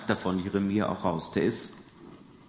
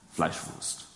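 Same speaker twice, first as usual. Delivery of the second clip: put-on hushed child's pick; 5 semitones lower, 5 dB quieter than usual. Child pointing at butcher counter.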